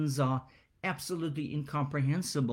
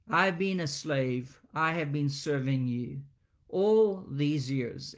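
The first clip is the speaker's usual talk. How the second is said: resentful complaint. Acted. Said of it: "that resentment now comes".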